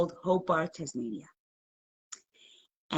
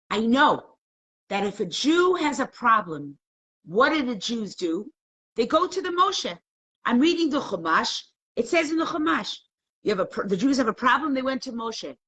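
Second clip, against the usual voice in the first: raised, pleading voice, imitating upset; crying wife; 5 semitones higher, 3 dB louder than usual. Wife to husband over where Jews take a problem, imitated tearful pleading. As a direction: act out a distressed wife's plea, without real tears. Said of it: "He finds his wife crying in the kitchen".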